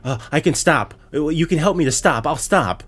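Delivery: imitating a pathetic promise to quit; pathetic pleading. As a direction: plead pathetically, mocking the character. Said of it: "It sounds so pathetic".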